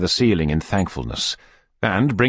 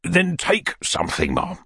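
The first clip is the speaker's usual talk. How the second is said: gentle coaxing with a raised pitch; soothing; 9 semitones higher than usual. A narrator's reading. Beadle comforts the whimpering lady, soothingly. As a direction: coax her kindly to take something. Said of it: "said Mister Bumble soothingly".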